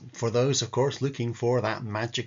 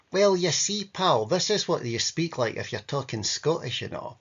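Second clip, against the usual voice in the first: mock Scottish accent; 4 semitones higher than usual. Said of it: "Scottish English".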